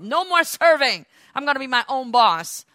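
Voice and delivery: a touch of a rebellious servant quitting; defiant Satan. Acted. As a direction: toss off the job with defiance.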